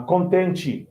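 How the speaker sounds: slow "contente" ending like "chee"; E changed to I. Shown as a demonstration. Teacher showing learner spoken Portuguese, "contente" as "contenchee". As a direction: end "contente" on an I sound. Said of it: "we change, uh, E for, for I".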